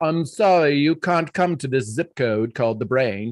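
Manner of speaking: put-on haughty, snooty, stuck-up snob voice. Explaining the blood-brain barrier, speaking as the brain in a snobby voice. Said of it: "I don't know why I just made that voice".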